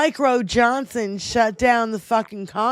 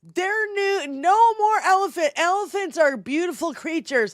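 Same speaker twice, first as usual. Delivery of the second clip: high-pitched, worked-up outrage; impassioned rant; 6 semitones higher than usual. Real, not acted. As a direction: rant it with real exasperation. Worked-up rant against political opponents.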